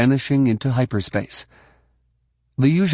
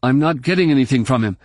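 strained voice; 3 semitones higher, faster than usual. Acted. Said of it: "Luke's voice sounded strained".

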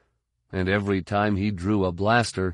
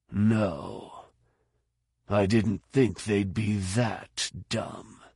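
dry disbelief; much slower than usual. Acted. Fett's dry remark on the enemy.

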